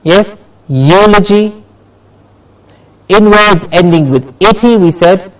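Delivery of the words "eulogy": slow "eulogy" with the first syllable stressed; "eulogy" said slowly as a model word, EU leading; stress before -logy. Shown as a demonstration. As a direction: draw out the EU of "eulogy". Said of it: "we stress the syllable before logi".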